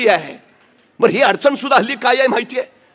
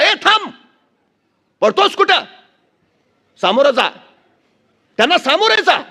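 thundering sadhu; 5 semitones higher than usual. Retold or imitated. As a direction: bark it like a stern monk halting a runaway. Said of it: "एक साधू कडाडला".

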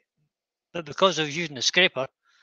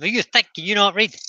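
mock teacher, higher and louder; scolding teacher; 5 semitones higher, 4 dB louder than usual. Old teacher scolding a pupil who can't read, mock-harsh. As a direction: fling the question like a cross schoolteacher. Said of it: "It was along the lines of".

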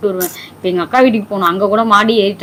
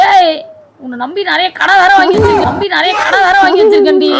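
real crying, half laughing; crying wail; 8 semitones higher than usual. Real, not acted. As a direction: wail through tears. Sobbing wail over loans.

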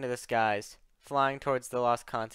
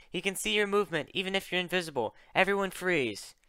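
high, quick urgent warning; yelled warning; 6 semitones higher than usual. Acted. Luna warns her invisible team, urgently yelling. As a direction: rush it out high, without much extra volume. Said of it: "Luna yelled".

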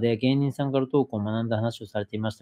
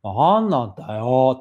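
louder, slow irritated grumble; mock Takaaki gripe; 6 dB louder, slower than usual. Imitating Takaaki griping at someone, louder and slow. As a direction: drag out a fake complaint. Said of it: "って言ってんのが".

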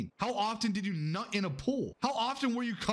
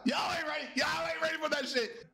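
Animal Crossing voice; 7 semitones higher than usual. Pretend. Streamer showing off his Animal Crossing voice. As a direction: tease the crowd in a squeaky game voice. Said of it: "Have you ever heard my Animal Crossing voice?".

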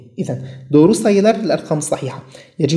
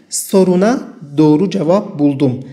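very slow, words set apart; slow dictation; 3 dB louder, much slower than usual. Shown as a demonstration. Teacher reading the example sentence to students, very slow. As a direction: read it slowly so learners can follow.

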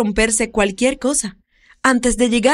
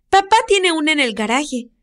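put-on high, eager child calling out; little girl voice; 6 semitones higher than usual. Little girl calls the older woman about the cat, high child voice. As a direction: play a worried little girl.

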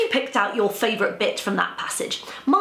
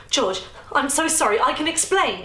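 garbled; 8 semitones higher than usual. Acted. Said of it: "Easter garbled".

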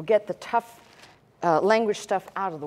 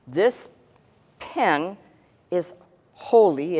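this, pen, is, holy, each word set apart, holy louder; deliberate pauses; 3 dB louder, slower than usual. Shown as a demonstration. Teacher showing the class a pen, pausing on each word. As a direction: spell it out word by word, landing on holy. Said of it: "it is only used for this tablet".

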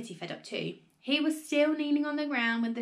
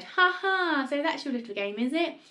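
accusing crow; 6 semitones higher, 3 dB louder than usual. Acted. Grandma accuses George of selfishness.

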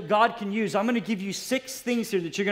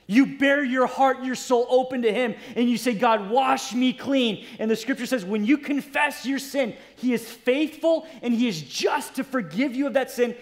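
raised, driving pulpit delivery; impassioned preaching; 5 semitones higher, 3 dB louder than usual. Real, not acted. Preacher urging congregation to confess, impassioned. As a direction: preach it with rising fervor.

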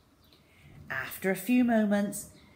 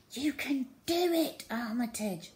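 whispered; 6 semitones higher than usual. A narrator's reading. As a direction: breathe encouragement to the rat. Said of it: "whispered Zoe".

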